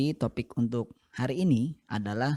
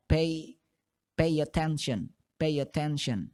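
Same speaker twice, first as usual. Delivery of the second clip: linked form; 2 semitones higher than usual. Shown as a demonstration. Teacher demonstrates the connected form. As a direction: pay attention run together as peiatenson. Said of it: "kalau kalian ucapan dengan cepat".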